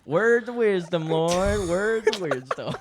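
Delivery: mock Southern gent; lightly voiced Southern accent. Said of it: "that was our best accents".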